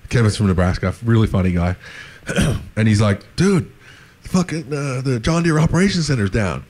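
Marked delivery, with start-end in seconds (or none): 3.4-6.6 high-pitched put-on American surfer dude; mock American accent. Kevin from Nebraska calls to say the center is down, mock American accent. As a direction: play it as an American dude breaking bad news. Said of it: "that's my American accent".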